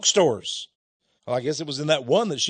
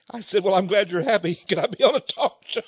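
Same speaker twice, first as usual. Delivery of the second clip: laughing; 3 semitones higher than usual. Real, not acted. Joking about being on TV.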